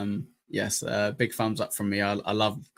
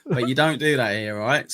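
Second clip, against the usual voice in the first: mock warning; 2 semitones higher, 6 dB louder than usual. Warning co-host over threats.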